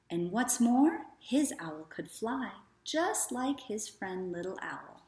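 gentle, even storybook narration; reading to children. A narrator's reading. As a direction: read it like a bedtime story for little ones.

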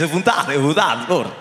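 "é vontade" with closed European Portuguese vowels; "é vontade" as a Lisbon local says it; light European Portuguese accent. Shown as a demonstration. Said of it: "consigo fazer no sotaque português".

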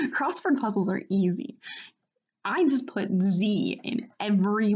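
a hint of theatrical character voice, slowing on key phrases; Papyrus. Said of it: "gonna try to actually do Papyrus's voice how I imagine it".

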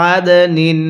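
আদ with a bounced, echoing দ before নিন; qalqala bounce on dal. Shown as a demonstration. Teacher showing students the qalqala bounce on আদ. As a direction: give the দ in আদ a little push so it bounces. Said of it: "দালটা পড়ার সময় একটু ধাক্কা দিয়ে পড়ব".

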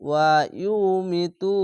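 ওয়া ইউ মিতু slowed down and run together without a stop; joined reading. Shown as a demonstration. Teacher to pupils, showing linked reading, slowly. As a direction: link ওয়া ইউ মিতু smoothly, no pause. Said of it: "এরকমভাবে".

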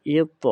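এত with a loud, heavy bounced t; upward articulation. Shown as a demonstration. Teacher corrects the mistake, upward echoing bounce. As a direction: echo the t of এত upward. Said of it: "উপরের দিকেও যাবে".

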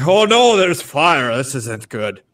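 high, loud sudden panic; alarmed. Acted. Baimi seeing the gnome's sleeve catch fire, alarmed high cry. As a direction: yelp at the fire, then settle. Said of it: "he's like".

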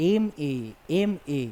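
"এম এ" said slowly, the opening "এ" sound brought out; teacher breaking "এম এ" into sounds; slow pronunciation demo. Shown as a demonstration. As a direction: spell out "এম এ" slowly, leaning on the first "এ". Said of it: "আগে এ উচ্চারণ আসছে".

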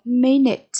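"Minute" stressed on MIN; stress on first syllable. Shown as a demonstration. Teacher modelling vocabulary for pupils, "Minute" stressed up front. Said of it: "nhấn âm tiết số một".

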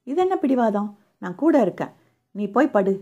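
firm, insistent, a touch stern. Acted. Man insisting on staying with sick woman, firm. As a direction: press the point, no arguing. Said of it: "அழுத்தமான குரலில் சொன்னான்".

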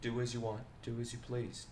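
a hint of calm, courteous killer; mock-gentle Yor with a quiet menace; imitating Yor. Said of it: "Yor is like".

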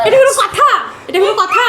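laughing protest. Real, not acted. Wife protesting the prank to her husband, laughing. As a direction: laugh through the outrage.

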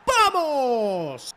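a cracking high scream of joy; goal scream. Real, not acted. Streamer screams as his striker scores.

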